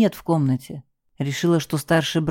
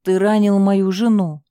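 moaning; 3 semitones higher, 4 dB louder than usual. Acted. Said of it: "стонал Карл".

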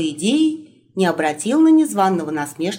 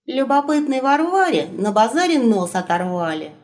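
grumbling; 5 semitones higher than usual. Acted. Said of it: "проворчал Серый".

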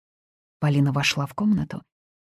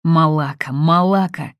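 a loud angry shout of the curse; 6 dB louder than usual. A narrator's reading. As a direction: yell it out. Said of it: "кричал он".

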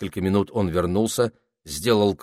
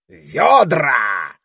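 sharp loud parrot command; commanding shout; 8 semitones higher, 9 dB louder than usual. A narrator's reading. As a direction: bark the single word as an order. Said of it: "приказал попугай".

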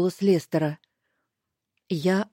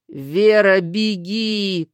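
rasping loud warning; hoarse urgent cry; 4 dB louder, much slower than usual. Acted. Раненый Лестер хрипло кричит Вере бежать. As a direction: force out the warning through pain. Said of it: "прохрипел он".

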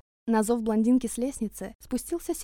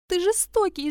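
shrieked accusation; 9 semitones higher, 5 dB louder than usual. A narrator's reading. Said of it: "завизжала".

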